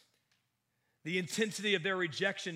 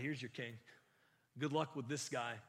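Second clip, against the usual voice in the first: sarcastic; 2 semitones lower, 5 dB quieter than usual. Retold or imitated. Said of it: "very sarcastic of Pilate".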